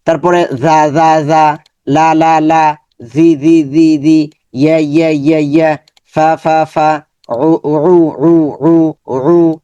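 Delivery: clear, repeated Arabic syllables, each one said crisply; syllable drill. Shown as a demonstration. Teacher drills students on letter sounds, crisp repetition. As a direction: sound out তি again and again for the class. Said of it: "আমরা এইভাবে practice করবো".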